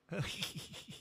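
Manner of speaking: a little donkey-like snicker sound. Acted. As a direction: do the small mocking snicker noise. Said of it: "And you snickered".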